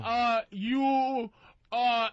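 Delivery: mocking foreign accent; mock broken English. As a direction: play the Brazilian girl's clumsy English. Mimicking broken English hooker.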